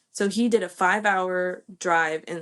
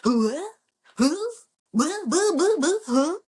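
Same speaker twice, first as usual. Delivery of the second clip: retold disbelief, much higher and louder; stunned disbelief; 9 semitones higher, 4 dB louder, slower than usual. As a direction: squeal of shocked surprise at the lucky odds. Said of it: "And I was like".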